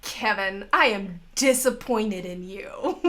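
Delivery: slow, laughing motherly scold; a hint of a let-down mother; disappointed scolding. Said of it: "And she goes".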